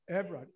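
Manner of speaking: Evrod as two syllables, EV-rod; softened pronunciation. Shown as a demonstration. Man repeats his name for the audience, Evrod as EV-rod. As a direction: run "Evrod" straight from the v into the r. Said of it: "started pronouncing my name that way".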